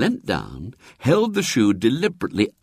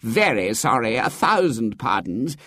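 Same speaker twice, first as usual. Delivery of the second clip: higher, fussing apologetic curate; fawning vicar; 10 semitones higher than usual. A narrator's reading. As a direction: fall over yourself apologizing. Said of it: "said the vicar".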